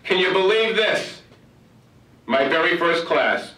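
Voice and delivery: high, slow, delighted exclamation; the new teacher shouts with delight over her class list; excited yelling out. Retold or imitated. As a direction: cry out with joy at the great news. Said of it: "yelling out loud".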